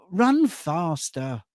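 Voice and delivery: long, drawn-out mock yell; mock mum's shout. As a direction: stretch it out like mum heckling players. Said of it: "she would always shout".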